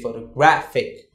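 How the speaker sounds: photographic with gra stressed. Shown as a demonstration. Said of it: "you don't stress on toe or photo".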